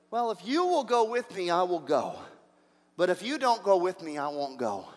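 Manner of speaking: lightly voiced reluctant commander, sinking low at the ends; timid Barak. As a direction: let each condition drop off timidly. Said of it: "here's Barak's timid response".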